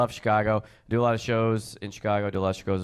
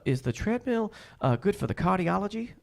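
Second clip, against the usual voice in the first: high-pitched clueless woman, imitated; dumb question; 11 semitones higher than usual. Woman asking a gym worker, high dim-witted questioning. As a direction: ask it up high as a mock-naive customer. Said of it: "questions are so dumb".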